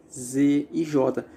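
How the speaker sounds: "Z" and "J" held long and slow so the buzz of the voice is heard; drawn-out voiced sounds. Shown as a demonstration. Teacher showing students voiced consonants, slow and drawn out. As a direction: stretch "Z" and "J" out to let the vocal folds vibrate. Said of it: "A gente pronunciando longamente".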